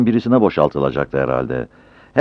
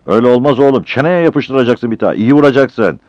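loud, higher heckling; jeering shouts; 8 semitones higher, 6 dB louder than usual. Acted. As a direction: egg on the fight from the truck. Driver's mate eggs on the fight. (alaycı bağırışlar)

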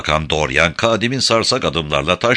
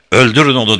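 loud, higher furious yell; furious cry; 6 semitones higher, 6 dB louder, faster than usual. Acted. Kadim ordering his men to kill Mansur, furious cry. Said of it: "diye haykırdı Kadim".

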